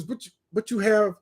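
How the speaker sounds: puzzled Kenyan listing it off; Kenyan accent. Retold or imitated. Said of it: "And they says".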